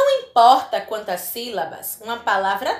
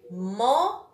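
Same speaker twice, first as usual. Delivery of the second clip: "momento" in three separate syllables, long MEN; stressed syllable demo. Shown as a demonstration. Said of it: "Qual é a sílaba mais forte?".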